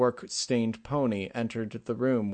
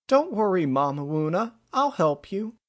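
put-on very high, louder tiny child's voice; pitched-up baby-talk comfort; little foal comforting; 9 semitones higher, 5 dB louder than usual. A narrator's reading. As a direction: reassure mother like an eager tot. Small foal comforts mother.

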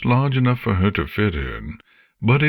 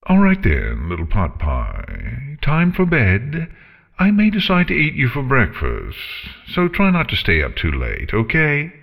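lightly voiced sleepy dragon; drowsy threat from a dragon; 7 semitones higher than usual. A narrator's reading.

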